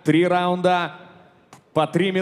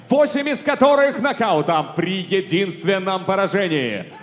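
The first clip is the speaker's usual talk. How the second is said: boxing ring announcer. Acted. Ring announcer introduces officials.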